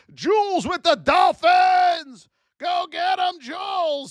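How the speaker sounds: high, loud, slow name call; hype shout. Real, not acted. Streamer shouting out a viewer, high and loud. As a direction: cheer the name like a game announcer.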